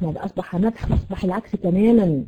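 ordinary talk, nothing marked

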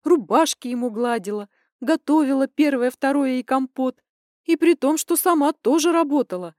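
high, loud, furious daughter venting; indignant rant. Acted. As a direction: pour it all out in rising outrage. Daughter ranting about cheating father.

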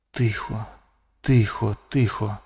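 hushed, near-silent calming; inner voice. Acted. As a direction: whisper it to yourself. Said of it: "думав Люк".

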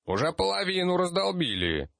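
put-on high proud boast from a child; proud kid. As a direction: brag like a little kid. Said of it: "гордо показал он". (гордо, детским голосом)

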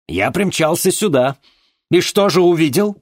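high, loud accusing shout; relentless anger. Acted. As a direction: keep hammering her. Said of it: "не унимался Владимир Семёнович".

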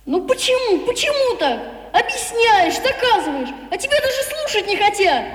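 put-on hurt and frustrated boy; upset. Boy upset, near tears.

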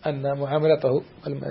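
ordinary talk, nothing marked

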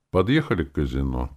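ordinary delivery

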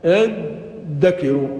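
الذكر drawn out slowly as id-dakiru; slow iddakiru for الذكر, d in place of dh; doubled dal. Shown as a demonstration. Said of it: "فأصبحت دالا مشددة".

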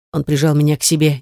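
ordinary delivery, nothing marked

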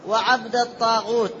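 وعبد said wa-'abd, silent ba; no vowel after b in وعبد; singular reading. Shown as a demonstration. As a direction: say وعبد الطاغوت as wa-'abdat-taghut. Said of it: "على الواحد".

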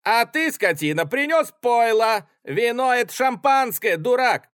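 high, loud berating of the servant; furious yelling. Acted. Officer berates orderly. (офицер в ярости кричит на солдата)

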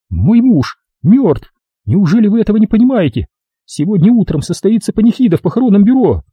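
high, strained widow's voice; grieving widow. A narrator's reading. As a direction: plead with him to understand. (вдова с горем объясняет, что муж мёртв)

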